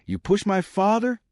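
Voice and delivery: even-toned challenge, pitch climbing high; controlled, razor sharp. A narrator's reading. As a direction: keep it controlled, let the question rise sharply. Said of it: "his tone controlled but razor sharp".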